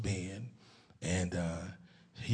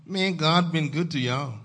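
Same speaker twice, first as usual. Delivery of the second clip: raised, hearty preacher's declaration; preaching statement; 4 semitones higher, 6 dB louder than usual. Real, not acted. Pastor telling Zion God has been good, first declaration. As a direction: state it firmly to the congregation. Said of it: "did y'all hear what I said".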